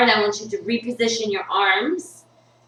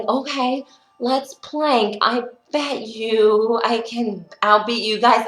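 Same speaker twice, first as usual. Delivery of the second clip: higher-pitched, cocky dare; playful challenge; 4 semitones higher than usual. Retold or imitated. Retelling her challenge to the trainer, playful challenge.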